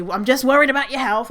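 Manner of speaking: mildly mocking, fake-caring voice; a light send-up of concern-trolling relatives. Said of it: "they say".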